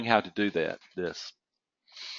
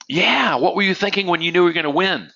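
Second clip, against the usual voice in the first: much higher, louder and fast mock reporter; pushy reporters; 8 semitones higher, 5 dB louder than usual. Journalists demanding the winner's thoughts, loud and hurried. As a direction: bombard him with an excited question.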